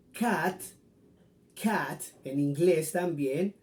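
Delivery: cat with a short English a. Shown as a demonstration. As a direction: say cat crisply, plain short a. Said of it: "se pronuncia diferente". (cat con a corta del inglés)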